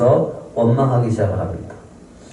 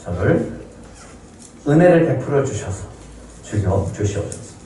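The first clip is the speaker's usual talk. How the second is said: desperate plea. Retold or imitated. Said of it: "간구하는 건".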